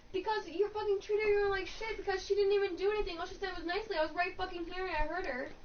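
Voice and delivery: lightly acted mother sticking up for her daughter; imitated indignant scolding. Retold mom defending daughter to manager.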